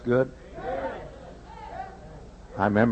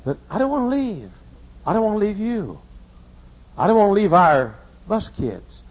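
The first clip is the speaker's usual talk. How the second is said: tearful; 2 semitones higher than usual. Real, not acted. Tells wife he won't leave.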